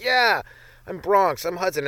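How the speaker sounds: put-on a kid claiming his hero; kid playing gargoyles. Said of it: "I'd be like".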